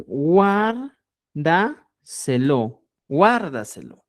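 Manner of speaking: very drawn-out guárdaselo like a mother; a hint of a mother instructing; mom telling you. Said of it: "Cuando tu mamá dice". (mamá diciendo guárdaselo, lento)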